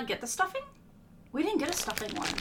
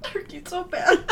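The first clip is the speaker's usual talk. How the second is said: disgusted cry; 8 semitones higher, 6 dB louder than usual. Real, not acted. Reacting to awful flavor.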